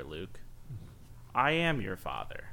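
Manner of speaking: low, soft Vader menace; low haunting voice. Retold or imitated. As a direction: breathe out the line darkly. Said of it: "the spooky guy voice".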